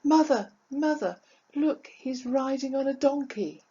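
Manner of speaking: high-pitched mock shout to mother; son calling out. Son to his mother over crowd noise, calling out. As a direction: call out high and urgently, as an excited son. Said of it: "shouting at me at the top of his voice".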